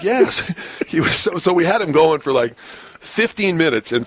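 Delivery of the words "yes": a much higher, hammed-up "Yes."; a touch of fake sincerity; mock earnest yes. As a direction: play it straight-faced to keep the prank going. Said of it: "I'm like".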